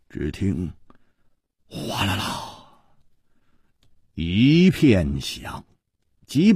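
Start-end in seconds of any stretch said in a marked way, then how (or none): 1.7-2.5 imitated clatter. A narrator's reading. Narrator imitates clatter of dropped swords.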